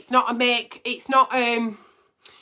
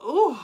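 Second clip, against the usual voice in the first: mock moan; 4 semitones higher than usual. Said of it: "doing a moan or a groan or a little".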